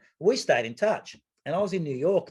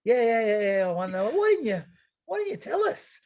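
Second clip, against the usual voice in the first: high, loud laughing protest; embarrassed disbelief; 11 semitones higher, 4 dB louder than usual. Retold or imitated. Friends embarrassed they didn't know, high laughing protest. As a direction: cry out half laughing in embarrassment.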